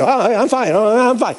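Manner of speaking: high, jittery mock reassurance; badly faked calm. Scared patient answering the surgeon, badly faked calm. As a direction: act out nerves while claiming to be cool. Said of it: "I thought I was being cool and calm, but I was probably more like this".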